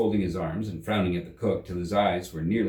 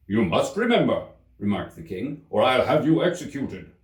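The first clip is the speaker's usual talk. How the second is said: louder threatening royal voice; stern King; 3 semitones higher, 4 dB louder than usual. Acted. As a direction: warn the witness coldly.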